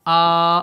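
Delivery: آ as an open long aa from the throat; آ کی آواز حلق سے; vowel aa demo. Shown as a demonstration. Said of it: "یہاں پر آواز آئے گی".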